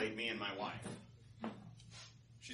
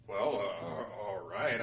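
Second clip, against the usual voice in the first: hesitant agreement; 5 semitones lower, much slower than usual. Acted. Sun hesitantly agrees to wind.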